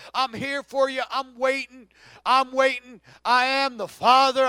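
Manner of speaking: a touch of tender pleading as Jesus; lightly voiced, coaxing call home; preacher lightly voicing Jesus calling sinners back. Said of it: "And Jesus said".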